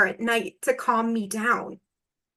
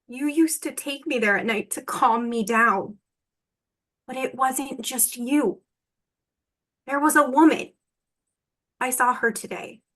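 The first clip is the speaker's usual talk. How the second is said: tethering her with clearer intent; clearer reading. Acted. Actor tethering her partner after coaching. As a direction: hold on to her with each line. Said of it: "that was better. That's more clear".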